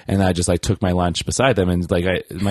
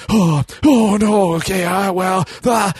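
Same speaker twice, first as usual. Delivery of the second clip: high, louder caught-out stammer; imitating nervous campers fumbling for an answer; flustered campers; 10 semitones higher, 4 dB louder, slower than usual. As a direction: stammer like you've been caught red-handed. Campers caught without paying.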